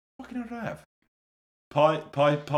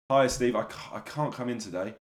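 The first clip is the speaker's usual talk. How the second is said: mock sick call; 3 semitones lower than usual. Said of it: "imagine calling in".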